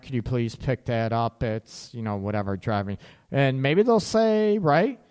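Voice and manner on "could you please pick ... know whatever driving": polite request. Shown as a demonstration. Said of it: "Come across saying".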